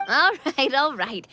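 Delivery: laughing through the words. Real, not acted. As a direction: break into a laugh mid-phrase. Laughing after the charade breaks.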